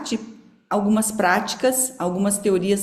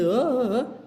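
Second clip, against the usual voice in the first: higher-pitched ghostly wail in jest; mock spooky "ooh"; 4 semitones higher, slower than usual. Teacher dismissing the spooky meaning of supernatural, mock ghostly noise. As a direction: imitate a ghost, briefly.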